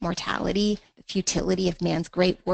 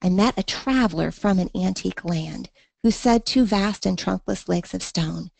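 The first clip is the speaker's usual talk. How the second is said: steady, rhythmic reading of the sonnet; poem reading. Shown as a demonstration. Teacher reading the poem aloud so students hear the meter. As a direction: read the lines letting the regular meter show.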